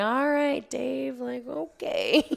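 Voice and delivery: eating her words. Retold or imitated. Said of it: "I had to eat my own words".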